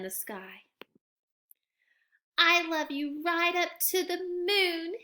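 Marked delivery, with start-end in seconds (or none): 2.4-4.9 put-on eager small child answering; little bunny showing off with arms wide; little hare voice. Sleepy little hare's last boast.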